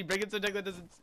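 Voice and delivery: chuckling while speaking; laughing through words. Real, not acted. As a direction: say it mid-laugh.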